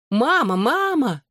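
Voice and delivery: high, slow cry of Mama through a door; calling out. A narrator's reading. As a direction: call out to her mother, stretched and high. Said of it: "закричала Лиззи из-за двери". (протяжно и высоко кричит «Мама, мама!»)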